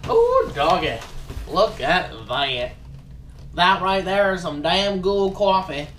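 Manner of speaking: a light, hammed-up Southern accent, slow on look at that; bragging about coffee in a put-on Southern drawl; mock Southern accent. Showing off a new coffee box to viewers, in a light mock Southern accent. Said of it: "I'm really bad at accents, y'all".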